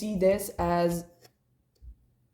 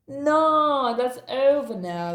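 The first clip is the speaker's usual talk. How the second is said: emphatic no; 5 semitones higher, 4 dB louder, slower than usual. Acted. Firm reassurance to viewers.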